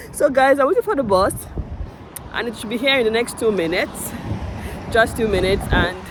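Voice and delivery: panting between words; out of breath. Real, not acted. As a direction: talk while catching her breath. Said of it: "see the way I'm panting".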